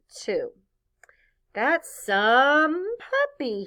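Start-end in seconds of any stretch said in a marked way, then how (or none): 1.5-3.7 concerned father. Acted. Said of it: "My father was a little concerned".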